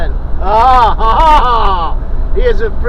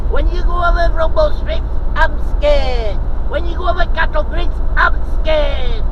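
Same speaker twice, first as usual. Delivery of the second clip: voicing scared dog; 3 semitones higher than usual. Owner voicing her dog's fears of bangs, lightly mock scared. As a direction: speak for the nervous dog, mock fearful.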